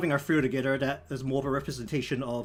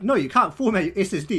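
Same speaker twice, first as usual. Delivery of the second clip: higher and louder, a snooty computer refusing; mock stern refusal; 5 semitones higher, 8 dB louder, faster than usual. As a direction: play the stubborn machine saying no. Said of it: "And he's like".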